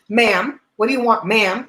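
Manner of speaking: lightly mimicked condescending clerk tone; denigrating DMV clerk. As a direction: imitate a dismissive clerk addressing a customer. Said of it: "this is like at the D M V".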